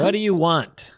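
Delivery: mock-suspicious what do you want; playful suspicion; suspicious demand. Shown as a demonstration. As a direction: act like a compliment means they want something. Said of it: "That's what you say when someone gives you a compliment".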